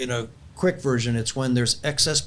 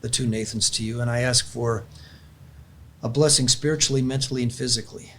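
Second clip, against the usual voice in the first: heartfelt prayer. Acted. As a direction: pray it aloud, earnest and unhurried. Closes the talk with prayer.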